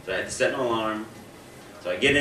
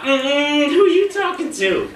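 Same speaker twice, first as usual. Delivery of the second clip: much higher and louder, dismissive sass; sassy Siri voice; 8 dB louder, slower than usual. Retold or imitated. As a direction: brush him off like a haughty diva. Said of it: "She was like".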